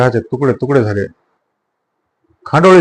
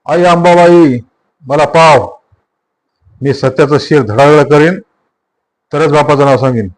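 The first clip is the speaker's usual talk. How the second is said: shouted vow; 2 semitones higher, 3 dB louder than usual. Acted. Kabira vowing revenge before Ambabai, shouting. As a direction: shout the oath in the temple. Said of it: "तो ओरडून म्हणाला".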